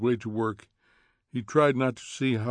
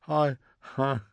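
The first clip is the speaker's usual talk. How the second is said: sobbing; 3 semitones higher than usual. Acted. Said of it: "sobbed Missus Phelps".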